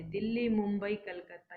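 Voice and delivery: short pause after Delhi and after Mumbai in the list; pause between names. Shown as a demonstration. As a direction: list the cities with small stops. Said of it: "बोलते समय थोड़ा थोड़ा रुकते हैं".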